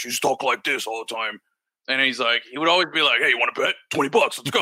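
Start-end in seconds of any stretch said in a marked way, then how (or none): 0.0-1.4 lightly imitated odd supervisor voice; a hint of a friend's weird way of talking. Navy friend describing his supervisor, lightly putting on the weird voice. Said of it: "he had this weird voice". 3.2-4.6 lightly imitated Yankees fan; a touch of an odd voice, pushing a wager; weird voice. Supervisor badgering a coworker to bet, lightly imitated weird voice. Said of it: "he had this weird voice".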